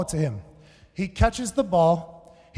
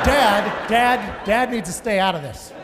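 calling out to dad; 4 dB louder than usual. Retold or imitated. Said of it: "And I'm like".

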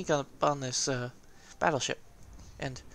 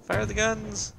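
louder, higher urgent order; panicked command; 6 semitones higher, 5 dB louder, slower than usual. Acted. Gamer ordering his guns to fire when caught, panicked shout. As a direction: call it out in comic alarm.

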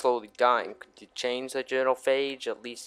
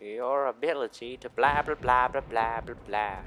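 mocking; 4 dB quieter than usual. Mocking the game character's line.

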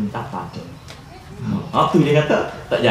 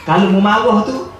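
Satan's warning; 6 semitones higher, 5 dB louder than usual. Retold or imitated. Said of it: "setan kata".

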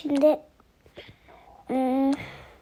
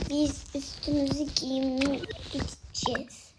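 whispering; 6 dB quieter than usual. Real, not acted. Whispering plans to the camera.

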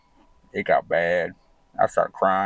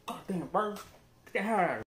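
put-on high, grumpy yelling old man; cranky old man; 10 semitones higher, 9 dB quieter than usual. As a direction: snap at the lady over the birds. Old man yells at lady.

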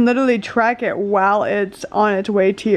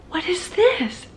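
puzzled, higher question; surprised; 7 semitones higher, 3 dB quieter, slower than usual. Real, not acted. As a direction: ask it half amused, curious. Reacting to surprise in kitchen.

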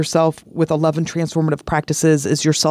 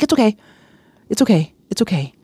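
calming herself; 4 semitones higher, faster than usual. Retold or imitated. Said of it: "I stopped myself right there".

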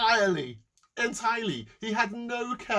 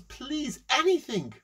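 pleading beggar; 10 semitones higher, slower than usual. Acted. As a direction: beg as a starving man would. Poor man begs for food.

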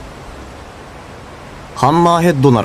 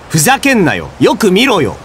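indignant, pitch jumping up; exasperated protest; 6 semitones higher than usual. Acted. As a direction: protest your innocence, exasperated. Protesting a false accusation.

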